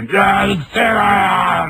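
put-on a stubborn old man annoyed at being disturbed; old man shouting that it's too noisy; grumpy old man. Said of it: "奥から出てきて".

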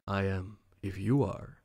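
low, hushed reply, still voiced; whispered back. A narrator's reading. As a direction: answer softly and low, almost whispering. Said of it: "he whispered back".

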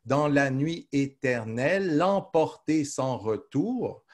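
very slow, "éternelle" running on into "l'emporter". Shown as a demonstration. Teacher repeating the line to show how the syllables are counted. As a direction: glide "éternelle" straight into "l'emporter", no break. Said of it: "Vous voyez comment, euh, on compte".

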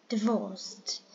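divorced with the weight on the second syllable; second-syllable stress. Shown as a demonstration. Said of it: "The second one is stressed".

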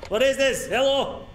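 high-pitched puzzled hello; startled calling out. Real, not acted. Player at the door calling hello, startled high voice. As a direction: call out high in surprise.

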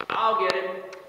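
put-on a child's loud, high call to the door; eager yell. A narrator's reading. Little Jacob yells to the door, eager and loud. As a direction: shout it out, keen to help. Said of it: "yelled out".

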